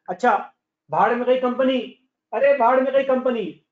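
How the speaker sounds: teacher brushing it aside loudly; emphatic dismissal. Real, not acted. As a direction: forget the company, say it with force. Teacher dismisses the company concept.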